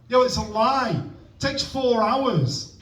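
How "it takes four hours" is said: high, slow disbelief on "four hours"; indignant complaint. Acted. Comic complaining about slow cooking, indignant. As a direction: draw out "four hours" in protest.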